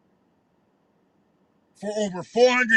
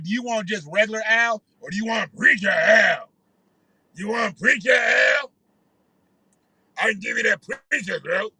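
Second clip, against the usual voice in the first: a hint of a phlegmy preacher; lightly voiced preacher pitch. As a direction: offer it up like a showman preacher. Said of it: "to do his preacher voice".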